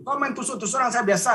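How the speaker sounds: retold angry threat. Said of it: "saya dengan emosi gitu".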